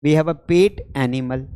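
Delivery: "We have a pet animal" said very slowly, each word spaced out; slow, deliberate repeat. Shown as a demonstration. Teacher repeats the sentence slowly for students to copy.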